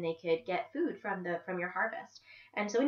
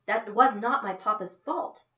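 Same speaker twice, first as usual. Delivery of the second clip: indignant retort; 3 semitones higher, 6 dB louder than usual. Acted. Esperanza answers Martha back.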